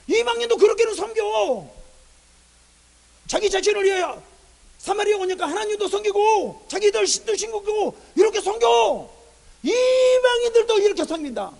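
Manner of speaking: loud, high, drawn-out declaration; God reproaching. Acted. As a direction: cry out in reproach, stretching the phrase endings. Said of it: "하나님 그걸 말하거든요". (소리 높여 책망하는 하나님)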